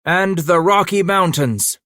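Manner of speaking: put-on loud, high Scottish-accented call, stretching out "Rocky"; Scottish rallying shout. A narrator's reading. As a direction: cheer on the caravan in a Scottish accent. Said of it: "The Scottish accent rose in the air".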